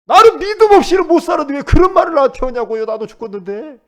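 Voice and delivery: high, loud shouted protest fading at the end; loud cry that sinks to a tired close; indignant shout. Retold or imitated. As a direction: shout out the grandmother's hurt protest. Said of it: "그랬다고 하잖아요".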